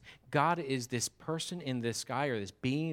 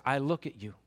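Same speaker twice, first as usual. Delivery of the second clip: God speaking; 5 dB louder than usual. Acted. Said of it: "He says".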